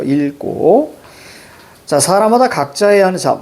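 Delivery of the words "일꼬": 읽고 stretched as il-kkooo; drawn-out reading demo. Shown as a demonstration. Teacher repeats the correct reading, drawn-out demo of 읽고. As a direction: draw out both syllables of 읽고. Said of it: "이렇게 읽어야죠".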